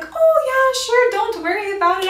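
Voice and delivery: high, bright-voiced old gift shop lady; sweet old lady. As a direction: play the kindly old lady, lifted up high.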